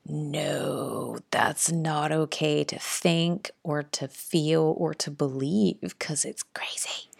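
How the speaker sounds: lightly voiced inner sceptic, slow; disapproving mind. Mind objecting to the healer's words, mildly disapproving. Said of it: "my mind was like".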